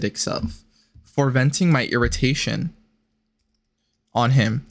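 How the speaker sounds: even-paced literary read; reading aloud. A narrator's reading. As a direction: read the old letter out evenly. Reads the letter aloud.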